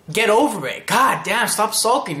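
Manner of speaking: mock exasperation at a moping friend; exasperated scolding. Naruto toughening up a sulking friend, exasperated scolding.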